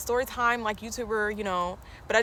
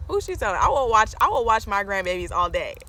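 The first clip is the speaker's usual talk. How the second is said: mom voice; 4 dB louder than usual. Retold or imitated. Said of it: "my mom was like".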